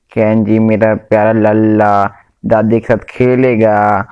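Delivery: put-on slow, doting baby talk to a little one; slow grandma coo over the phone; cooing to grandchild. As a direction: coo it out lovingly, stretched.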